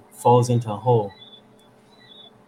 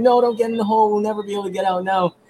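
high, panicked protest, hurrying at the end; retold panic, pitched way up and louder at first; mock scream; 9 semitones higher, 4 dB louder, much faster than usual. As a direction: imitate a desperate shout to stop someone. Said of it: "he starts screaming".

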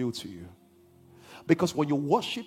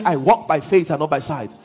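firm, louder line for the church to echo; louder call to repeat; 6 dB louder than usual. Shown as a demonstration. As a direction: proclaim it louder so they repeat.

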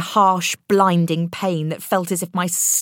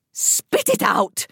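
mild shout; 3 semitones higher, slower than usual. Acted. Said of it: "shouted Missus Beaufort".

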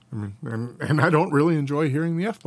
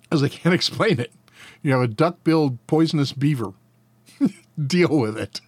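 laughing; 3 semitones higher than usual. Real, not acted. Joke about platypus, laughs heard.

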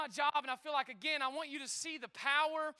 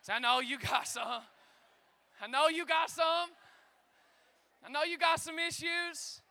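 teasing neighbor line. Shown as a demonstration. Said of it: "tap your neighbor. Say".

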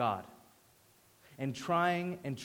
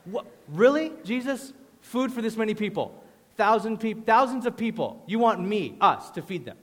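high, loud incredulous retort; acted-out exasperated protest; snapping back; 5 semitones higher, 5 dB louder than usual. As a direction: snap back in sarcastic disbelief. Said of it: "they snap back at him".

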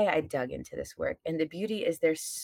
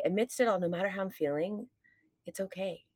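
soothing affirmation; 6 dB quieter, faster than usual. Shown as a demonstration. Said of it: "and then you say".

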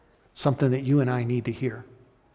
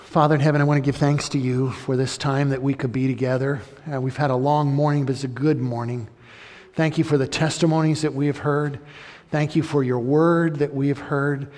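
louder, earnest prayer voice addressing God; 4 dB louder than usual. Acted. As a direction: pray aloud for the congregation. Leads the closing prayer.

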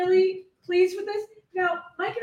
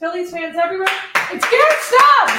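ringmaster; 6 dB louder than usual. Acted. Announcing the costume reveal.

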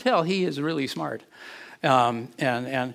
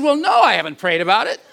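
louder, higher, chuckling through the words; laughing admission; 8 semitones higher, 8 dB louder than usual. Retold or imitated. Pastor telling the congregation his sheepish reply, laughing. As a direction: confess it while laughing.

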